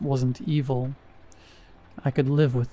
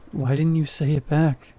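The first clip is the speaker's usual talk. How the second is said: shaky. Acted. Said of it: "My voice came out shaky".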